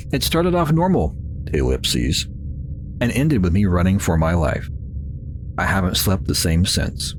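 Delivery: reading the intro like a mild spooky tale; understated storyteller voice; story narration. Acted. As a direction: narrate it as a lightly dramatic horror opening. Reads game intro text aloud.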